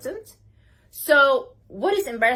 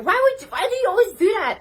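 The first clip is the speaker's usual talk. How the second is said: puzzled question; 10 semitones higher, 6 dB louder, faster than usual. Retold or imitated. Asking bartender, much higher, louder.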